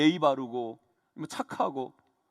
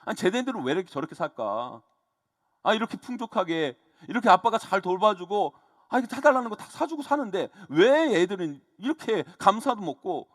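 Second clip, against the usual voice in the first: mildly exasperated inner grumble; retold frustration. Dad wondering why his daughters are so ungrateful, mild frustration. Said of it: "막 이런 생각을 하면서 막 답답했어요".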